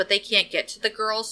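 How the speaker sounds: usual speaking voice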